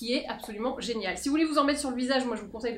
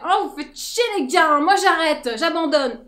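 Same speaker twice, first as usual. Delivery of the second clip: louder, higher fed-up grumble; fed-up skin; 3 semitones higher, 5 dB louder than usual. Pretend. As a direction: whine like skin giving up. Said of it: "elle fait".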